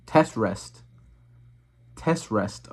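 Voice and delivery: reading while chewing gum; words round a wad of gum. Real, not acted. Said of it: "with gum in my mouth".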